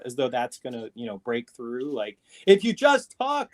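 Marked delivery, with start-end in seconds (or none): 2.5-3.5 louder and higher, talking at a foreigner; mock yelling. Mocking someone who yells at a foreign speaker, louder. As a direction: exaggerate the volume to be understood. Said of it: "someone just yells, turns up the volume".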